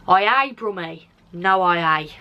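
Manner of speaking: a lightly done Black Country accent, "aye" for "ain't"; playing up her Black Country dialect for the camera; broad Black Country accent. Shown as a demonstration. Vlogger showing off her home Black Country dialect, lightly put-on accent. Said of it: "I can't even take myself seriously when I speak like that".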